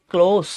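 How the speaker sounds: ক্লোজ ending in a hissed s, not z; careful model of ক্লোজ with a long final s; dental s. Shown as a demonstration. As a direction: say ক্লোজ as "klohss". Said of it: "এই যে দন্ত স উচ্চারণ হবে".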